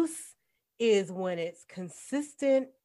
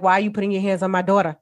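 fast, louder retold confrontation; confronting; 5 dB louder, much faster than usual. Grandma scolding her granddaughter for pushing her mom, fast and loud. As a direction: rattle it off hard, getting in her face. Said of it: "get in my granddaughter's face and be like".

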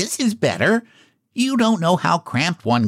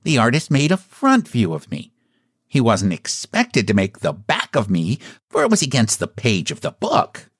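mildly put-out clown voice; annoyed clown; 3 semitones higher than usual. A narrator's reading. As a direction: explain with a touch of clownish annoyance. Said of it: "he returned in an annoyed tone".

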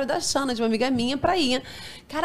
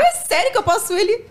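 eager high plea; 9 semitones higher than usual. Retold or imitated.

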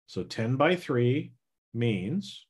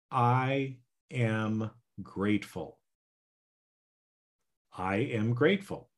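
slow affirmation; slower than usual. Shown as a demonstration. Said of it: "It can be something as simple as this".

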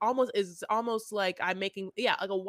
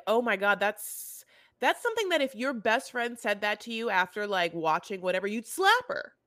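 outraged disbelief. Retold or imitated. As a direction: build to an outraged squeal. Retold outraged reaction.

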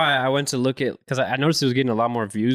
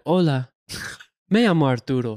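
robot voice. Retold or imitated. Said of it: "he sounded like a robot".

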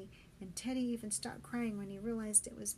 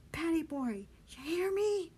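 calling out; 8 semitones higher, 7 dB louder than usual. Acted. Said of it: "You gotta keep shouting".

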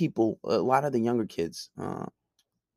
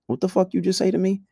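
angry retort; 8 semitones higher than usual. Retold or imitated. Confronting coworker who insulted him.

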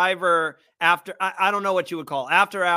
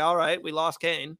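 slower, indifferent retold reaction; unmoved shrug; 2 semitones lower than usual. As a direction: act out shrugging off a loss. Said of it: "didn't really hit me hard".

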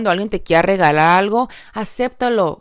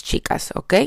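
whispered aside; 5 dB quieter than usual. Real, not acted. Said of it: "whispered address".

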